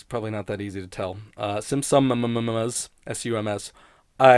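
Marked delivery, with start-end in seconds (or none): 1.6-2.9 "Simpsons" drawn out slowly, each sound clear; over-enunciated. Shown as a demonstration. Host contrasting his show title with another name, slow careful "Simpsons". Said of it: "I feel like I have to over-enunciate".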